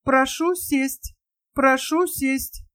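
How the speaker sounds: slow, flat machine voice; dull metallic voice. Acted. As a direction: drone it like a dull robot. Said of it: "тусклый металлический голос".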